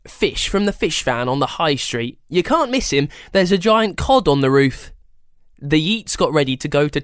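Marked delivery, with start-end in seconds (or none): 0.1-4.9 lively grandma giving directions; chatty old lady instructions. Acted. Gran voiced.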